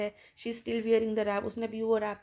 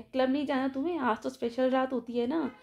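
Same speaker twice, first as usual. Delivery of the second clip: taunting. Retold or imitated. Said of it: "उसको ताना देके बोलती है".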